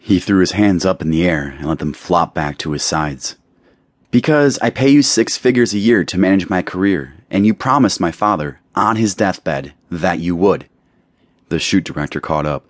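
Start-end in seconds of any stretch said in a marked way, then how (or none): 4.1-10.7 put-on lightly raised, haughty girl's voice; a hint of a pampered star talking down; a touch of the entitled model, higher pitched; spoiled young model. Taylor answers her manager.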